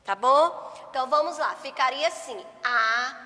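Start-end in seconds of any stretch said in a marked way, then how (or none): 2.6-3.2 very slow, word by word, with long pauses; teacher dictating a model sentence to children; slow dictation. Shown as a demonstration. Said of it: "Vou fazer só uma pra vocês observar".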